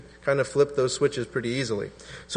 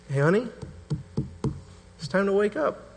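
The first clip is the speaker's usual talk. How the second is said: put-on a soft, tender call to a sleeping child; a parent gently waking a daughter; gentle wake-up; 7 semitones higher, 4 dB quieter, faster than usual. Shown as a demonstration. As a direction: wake her lovingly. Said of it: "Jesus being gentle and tender".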